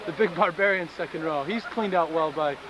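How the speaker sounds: lively sports commentator voice; play-by-play commentary. Pretend. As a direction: call the match like live TV. Mock rugby play-by-play.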